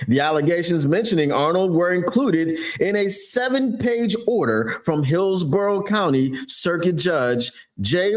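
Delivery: lightly put-on news anchor read; newscaster voice. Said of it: "I'm gonna do my best newscaster's voice".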